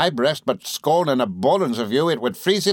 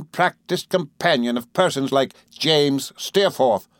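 Rosa Dartle, taunting; 7 semitones higher than usual. A narrator's reading. Rosa taunting the runaway girl, scornful. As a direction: heap cold taunts on her. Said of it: "on whom she heaped these taunts".

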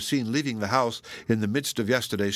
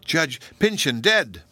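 slow, higher and louder, aghast; slow, aghast realisation; stunned horror; 5 semitones higher, 4 dB louder, slower than usual. A narrator's reading. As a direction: spell out the awful truth slowly. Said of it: "shuddered Phoebe".

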